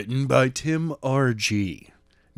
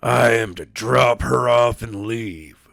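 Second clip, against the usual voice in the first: harsh tone; 3 dB louder, slower than usual. Acted. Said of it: "with a harsh tone".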